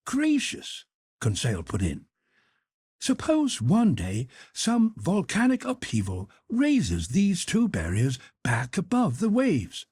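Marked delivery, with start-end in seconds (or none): 0.1-0.9 higher, deferential manservant voice; Conseil the servant. Acted. Servant Conseil respectfully objects to his master, in a higher voice. 3.0-9.9 higher, deferential manservant voice; Conseil the servant. Acted. Servant Conseil respectfully objects to his master, in a higher voice.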